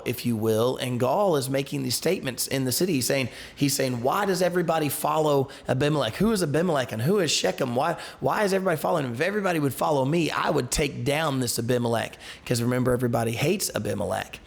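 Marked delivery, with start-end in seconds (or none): 4.0-12.2 boastful rant. Retold or imitated. Drunk Gaal boasting in the city.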